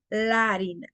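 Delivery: "La harina" joined as larina; one single a across "La harina"; vowels merged. Shown as a demonstration. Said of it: "Entonces, se une".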